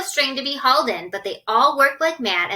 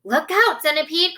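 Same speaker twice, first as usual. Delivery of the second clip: sharp raised warning; urgent cry; 5 semitones higher than usual. Acted. James warning the centipede, raised urgent cry. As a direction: call out the danger. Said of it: "cried James".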